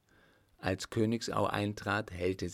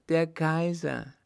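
high, loud, slow cry of joy; jubilant exclamation; 9 semitones higher, 6 dB louder, slower than usual. A narrator's reading. Girl announces the Emperor to her mother, jubilant. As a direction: proclaim it jubilantly, drawing out KAISER. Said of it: "rief jubelnd aus".

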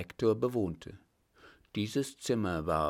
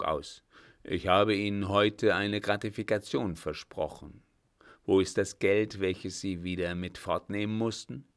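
put-on an old captain's voice, louder and firmer than the narration; 3 dB louder than usual. The old captain to the startled director, louder and firm. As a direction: speak as the old master calming a frightened man.

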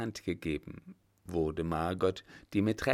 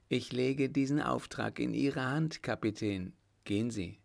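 higher-pitched, measured imperial instructions; a hint of a commanding ruler; lightly voiced Emperor; 4 semitones higher than usual. Emperor figure giving orders. (leicht angedeuteter Kaiser, bestimmt anordnend)

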